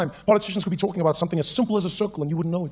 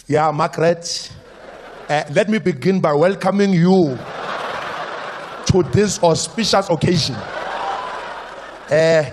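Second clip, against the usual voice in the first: slow pompous politician. Retold or imitated. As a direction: drag out every formal phrase. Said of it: "Politician having a good time".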